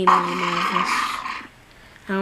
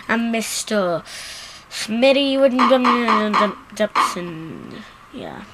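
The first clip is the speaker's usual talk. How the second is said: sarcastic boasting. Acted. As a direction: brag about yourself with obvious sarcasm. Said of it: "You know I'm being sarcastic".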